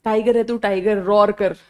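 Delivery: mock Sanju pep talk, "tiger" egged on; hint of a filmi pep talk. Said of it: "जैसे Sanju movie में वो बोलता है". (Sanju film के अंदाज़ में हल्की नक़ल)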